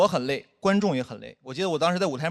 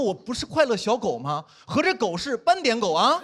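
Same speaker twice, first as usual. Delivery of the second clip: mock sad; 4 semitones higher, slower than usual. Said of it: "当时有点悲伤".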